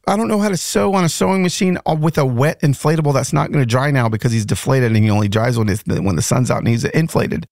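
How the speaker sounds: slightly slurred speech from a pulled tooth; talking around a sore, numb mouth; talking funny after tooth pulled. Real, not acted. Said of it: "if I'm talking funny, it's because I got an entire tooth pulled yesterday".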